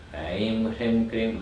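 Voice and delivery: slow, measured chant on a steady note; unhurried, even recitation; slow mantra. Shown as a demonstration. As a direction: stretch each syllable of the mantra. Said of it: "I do it again slowly".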